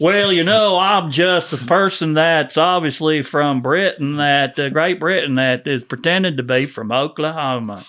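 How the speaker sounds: bad American accent. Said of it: "mine was actually better".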